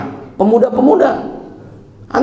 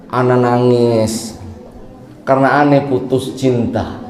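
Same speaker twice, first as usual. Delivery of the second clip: whiny heartbroken; 6 semitones lower than usual. Acted. A lovesick youth tells the spy, mock whiny. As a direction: whimper it like a weak lovesick youth. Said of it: "Ini nangisnya tapi cemen ini".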